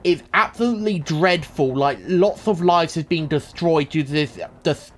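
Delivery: a hint of a grave TV newsreader; mock news anchor. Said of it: "on the news where they're like".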